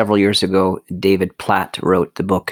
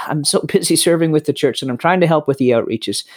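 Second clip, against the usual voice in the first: busy brother; 6 semitones higher than usual. Retold or imitated. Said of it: "the brother who says".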